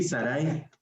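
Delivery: Sarai with ai run together; Sarai as she pronounces it. Shown as a demonstration. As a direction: model the name Sarai, ai as a diphthong. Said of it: "y lo pronuncia así". (Sarai pronunciado con diptongo)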